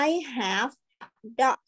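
very slow, word by word; slow model reading. Shown as a demonstration. Teacher reading to online class, slow and clear. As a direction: read "I have a kite" slowly for children to repeat. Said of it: "อ่านตามนะ".

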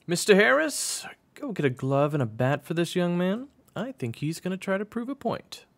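high, loud coach voice; coach giving orders. Acted. Coach sends assistant for gear, high commanding voice. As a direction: call out orders well up in pitch.

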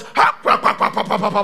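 rapid loud bursts of rumbling noise; imitated earthquake noise. Preacher acting out the earthquake for the congregation, loud imitated rumble. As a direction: mimic a quake with pounding syllables.

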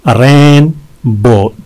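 "रेनबो" slowly, split in two; syllable breakdown. Shown as a demonstration. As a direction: stretch and separate both syllables of "रेनबो". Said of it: "दो हैं इसमें". ("रेनबो" दो हिस्सों में धीरे)

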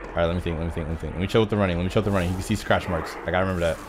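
low, soft thinking aloud; focused self-talk. Real, not acted. Player working out how to hide, low and quiet. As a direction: talk yourself through it quietly.

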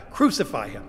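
loud, condemning cry; acted mob demand, punched at the start; crowd's cry. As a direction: throw out the verdict as the crowd. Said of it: "who cried these words".

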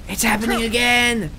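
loud, high alarmed cry; excited shout. Real, not acted. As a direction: call out the glitch. Bug repeats, exclaiming.

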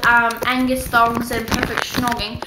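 playful put-on British accent. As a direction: speak in a mock British accent. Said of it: "I like to speak in British accents".

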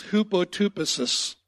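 "hupotupesis" said slowly as hoo-po-TOO-puh-sis; Greek word hupotupesis. Shown as a demonstration. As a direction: sound out "hupotupesis" for the congregation. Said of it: "I'm gonna tell you what it sounds like".

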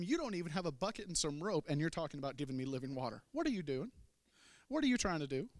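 sassy rising challenge. Acted. Samaritan woman sassing Jesus about the bucket, mocking. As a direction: talk back with attitude. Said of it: "Sass for days".

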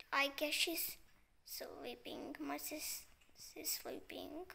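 hushed whisper so sister sleeps. Real, not acted. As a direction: whisper softly.

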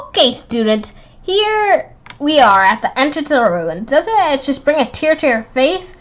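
lightly voiced pompous teacher; proud tour guide teacher.

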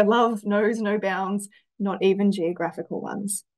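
love knows no bounds, drawn out very slowly; romantic, slow. Acted. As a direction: savour each word like a love letter. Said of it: "a romantic answer".

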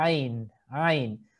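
throaty Ain from the throat; Arabic ain. Shown as a demonstration. Teacher naming the letter Ain from the throat. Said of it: "La próxima letra del alfabeto árabe es la letra".

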